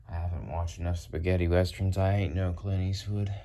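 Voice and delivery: loud spaghetti-western twang; western accent. Pretend. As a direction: play up a cowboy western accent.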